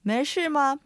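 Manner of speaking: 没事吗 rising méi, falling shì, light ma; teacher model; Mandarin question. Shown as a demonstration. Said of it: "今日のセンテンス".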